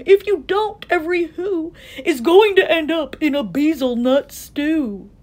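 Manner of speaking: high, alarmed warning; urgent warning. A narrator's reading. Horton warns the mayor of the stew, alarmed. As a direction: warn them of doom, pitched high.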